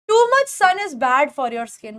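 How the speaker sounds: slow, clear English read for the class; very slow model sentence. Shown as a demonstration. Teacher modelling a sentence for students, very slow. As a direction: read it out word by word. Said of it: "teacher models English sentence slowly".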